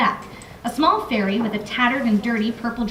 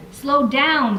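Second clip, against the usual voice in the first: ordering; 3 semitones higher, 4 dB louder than usual. Acted. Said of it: "Griff ordered".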